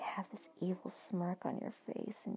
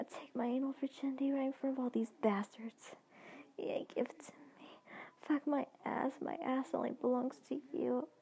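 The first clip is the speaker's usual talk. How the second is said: moaning replies; 4 semitones higher than usual. Acted. She moans back to Benjamin.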